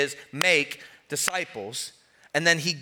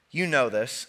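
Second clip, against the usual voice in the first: ordinary delivery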